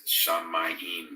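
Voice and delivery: Shamayim with a long held m; Hebrew word. Shown as a demonstration. Host teaching the Hebrew word for heavens. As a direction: stress the mm in Shamayim. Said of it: "Just like heavens".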